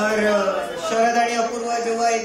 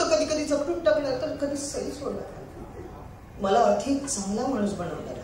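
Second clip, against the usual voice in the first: lightly plaintive stage monologue; tearful monologue. Acted. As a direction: perform a heartfelt plea to a beloved, only a touch weepy. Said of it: "थोडा रडका आहे". (किंचित रडवेल्या सुरातील नाट्यमय स्वगत)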